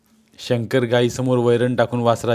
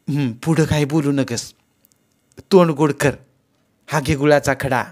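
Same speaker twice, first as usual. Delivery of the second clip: put-on teasing old mother; 4 semitones higher than usual. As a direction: rib him about finding gold.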